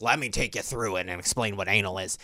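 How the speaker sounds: Doctor Sue. Acted. Old TV therapist answering a nervous caller, old-lady voice. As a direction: put on an old lady patiently explaining. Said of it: "And Doctor Sue would be like".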